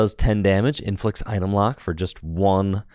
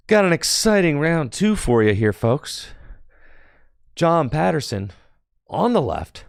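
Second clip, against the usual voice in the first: hyped announcer; 8 semitones higher than usual. Real, not acted. Hyping the next round.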